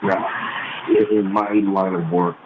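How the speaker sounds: caller's voice echoing as if in a tunnel; hollow, distant phone-line sound. Real, not acted. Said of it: "It sounds like you're in a tunnel".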